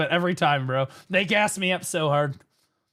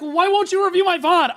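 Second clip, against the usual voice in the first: imitating Briggs; 9 semitones higher, 5 dB louder, faster than usual. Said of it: "he's like".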